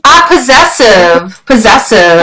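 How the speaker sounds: "possessive" said clearly as a model; modelled pronunciation. Shown as a demonstration. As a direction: model the word "possessive" for a learner. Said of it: "You had trouble saying this before".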